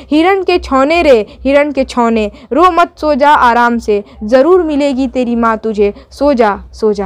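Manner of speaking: slow, gentle lullaby reading of the poem; poem recitation. Acted.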